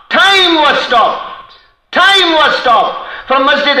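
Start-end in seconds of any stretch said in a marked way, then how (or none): 0.1-1.5 slow awe. Acted. Sermon climax, slow. 1.9-3.1 slow awe. Acted. Sermon climax, slow.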